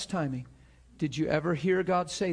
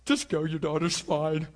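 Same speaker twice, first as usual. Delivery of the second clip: lightly acted delighted reassurance; excited Jesus. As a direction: send her off with a touch of excitement. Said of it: "It really excited Jesus".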